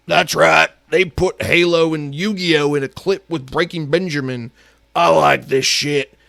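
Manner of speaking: lightly voiced mock gamer fan, pleased with himself; a hint of a clueless fan cheering the clip; dumb gamer fan. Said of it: "instead of going".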